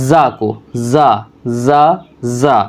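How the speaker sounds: "زا" slow with a buzzing z; slow letter demo. Shown as a demonstration. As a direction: draw out "زا" for the student. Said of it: "اس طرح سے اس کو زا کو کہنا ہے".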